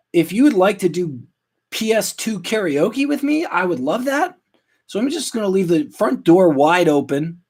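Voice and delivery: high, mock-cheery announcement; birthday invitation. Host inviting people over for birthday gaming, high mock-cheery announcement. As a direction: pitch it up like a hopeful party invite. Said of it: "where I say".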